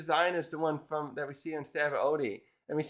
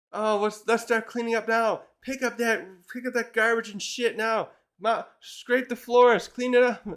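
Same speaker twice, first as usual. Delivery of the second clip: high-pitched, urgent mock orders, building louder; rally everyone, getting louder toward the end; frantic eagerness; 7 semitones higher, 3 dB louder than usual. Islanders ordering each other to clean up for her, frantic.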